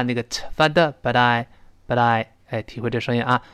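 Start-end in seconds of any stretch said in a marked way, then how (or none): 1.0-2.3 "but I" quickly linked, t turned to d; voiced t. Shown as a demonstration. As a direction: blur the t of "but I" into a d. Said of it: "读快了一浊化".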